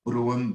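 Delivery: Brougham offered as a second guess, unlike "brow"; alternative name pronunciation. Shown as a demonstration. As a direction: try Brougham as another way to say the name. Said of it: "I hope I pronounced your name right".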